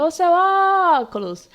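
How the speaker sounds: high, loud call stretching the ó of óculos; calling a neighbour. Shown as a demonstration. Teacher calling óculos like a neighbour to find the stressed syllable, loud and drawn out. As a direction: call out óculos, holding the first syllable long. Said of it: "chama lá o vizinho".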